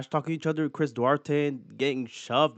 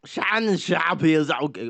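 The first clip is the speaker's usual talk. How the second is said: put-on German accent; slower than usual. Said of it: "Why am I doing the German accent still?".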